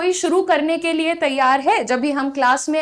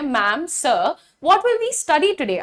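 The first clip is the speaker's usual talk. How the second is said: curious student; 2 semitones higher, much slower than usual. Retold or imitated. Student voiced asking the teacher.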